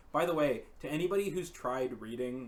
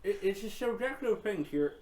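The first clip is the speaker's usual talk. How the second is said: cigarette in mouth; 7 semitones higher, 3 dB louder than usual. Real, not acted. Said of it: "I'm talking with a cigarette in my mouth".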